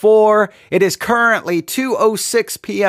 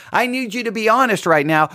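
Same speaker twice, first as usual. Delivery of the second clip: usual speaking voice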